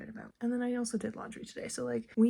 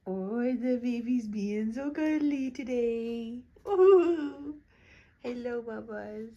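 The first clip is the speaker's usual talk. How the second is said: slow tender coo; 4 dB louder, slower than usual. Real, not acted. Mom cooing slowly at her cuddly baby. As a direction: melt a little, unhurried.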